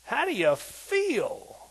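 loud high call then slow question. Retold or imitated. Jesus asking Lazarus, loud then slow drawn. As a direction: call his name, then ask slowly. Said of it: "and Jesus said".

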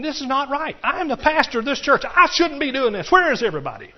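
mock outrage about doing it alone; indignant grumbling. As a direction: huff like an overworked pastor. Pastor voicing his own grumbling thoughts.

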